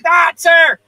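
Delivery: high panicked shriek. Acted. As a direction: scream it in fright. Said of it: "shrieked Scootaloo".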